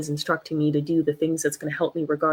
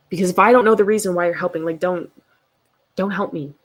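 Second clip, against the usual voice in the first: louder, fast outburst; heated rush; 6 dB louder than usual. Real, not acted. Explaining why help made her angry, fast heated burst. Venting past anger.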